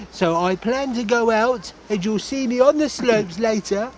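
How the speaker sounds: a hint of a dithering Frank Spencer; Frank Spencer impression. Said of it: "I can do a very good Frank Spencer".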